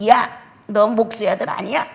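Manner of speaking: loud, scornful call-out; jeering mockery. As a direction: jeer at him as a nobody. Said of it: "이렇게 비웃음을 받고". (비웃는 말투)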